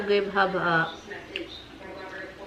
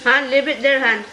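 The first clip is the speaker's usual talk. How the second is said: calling out; 4 semitones higher, 5 dB louder than usual. Real, not acted. Calling to child to stop.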